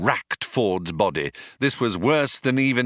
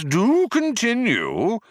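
inviting Vogon; 14 semitones higher, slower than usual. Acted. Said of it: "invited the Vogon".

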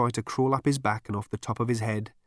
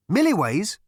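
high, loud rising question; astonished; 10 semitones higher, 6 dB louder than usual. Acted. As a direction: echo the name loudly in surprise. Ford astonished by the news.

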